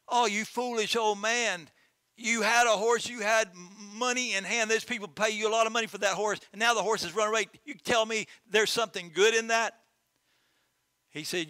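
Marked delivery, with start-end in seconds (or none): 0.1-9.8 higher-pitched scornful neighbors; mocking neighbors. Neighbors ridiculing the farmer for losing the horse, higher and scornful. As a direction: scoff at the old fool.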